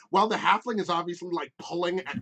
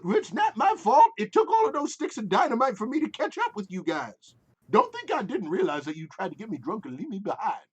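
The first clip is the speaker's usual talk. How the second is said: defensive character whine; 6 semitones higher, 4 dB louder than usual. Acted. Simon defends himself to Alma.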